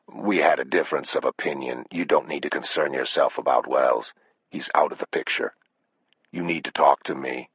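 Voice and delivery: understated, controlled menace; calm killer. Acted. Killer speaks calmly on phone.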